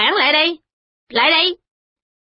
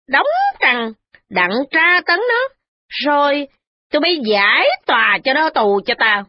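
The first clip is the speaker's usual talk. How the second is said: harsh orders; 7 semitones higher than usual. A narrator's reading. The matron ordering the official to jail the servant, harsh. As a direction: order her dragged off and tortured. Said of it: "bà nói với Hương Quảng rằng".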